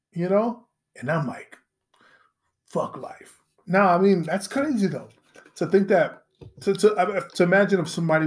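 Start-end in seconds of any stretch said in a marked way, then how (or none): 2.7-3.4 whispered, low and breathless; hushed whispered despair; mock whisper. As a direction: breathe it like a tragic quitter. Mock student giving up.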